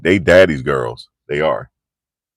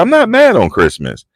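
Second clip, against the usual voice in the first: much higher, indignant mock denial; retold protesting denial; 13 semitones higher than usual. Dad denying he is mad at the kids, protesting. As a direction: protest it in a pitched-up voice. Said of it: "He got mad at him".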